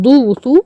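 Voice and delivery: ضو وطو with brief u sounds; short damma only. Shown as a demonstration. Teacher contrasting damma with madd, short ضو وطو. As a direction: keep both vowels short in ضو وطو. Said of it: "هتبقى مضمومة بس".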